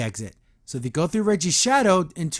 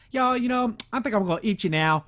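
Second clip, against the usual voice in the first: lightly voiced weird, effeminate giant; a hint of camp, weird menace; 4 semitones higher than usual. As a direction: imitate an oddly effeminate man-eater. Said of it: "he has a really weird, effeminate voice".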